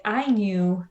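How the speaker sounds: low, slow storytelling drawl; pastor's funny story. Retold or imitated. Pastor telling a joke to a kid in the car, low and slow. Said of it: "And he was just like".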